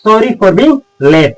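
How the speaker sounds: stretched out slowly, word by word; slow it right down for learners; slow repeat. Shown as a demonstration. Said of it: "तो आप बोलिएगा".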